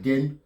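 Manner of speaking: "gen" set apart as a single syllable. Shown as a demonstration. Teacher counting syllables for learners, "gen" said separately. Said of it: "trois syllabes".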